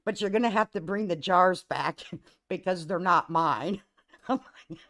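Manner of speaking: loud retold line broken by a laugh; barely getting the punchline out; cracking up. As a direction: quote Dad while fighting back laughter. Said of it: "I can't say it without laughing".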